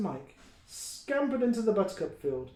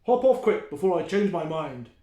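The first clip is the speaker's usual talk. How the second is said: louder, gruff troll order; grumpy troll; 7 dB louder than usual. Acted. The troll sends the goat away, louder. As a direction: shoo him off like a grumpy troll.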